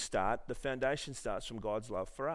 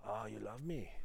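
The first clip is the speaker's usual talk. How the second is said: put-on Asian accent; 2 semitones lower, 11 dB quieter than usual. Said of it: "oh, that was Asian, sorry".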